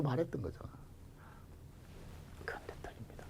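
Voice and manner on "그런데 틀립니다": soft conspiratorial whisper; whispered reveal. Shown as a demonstration. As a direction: whisper it very softly. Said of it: "whispered twist".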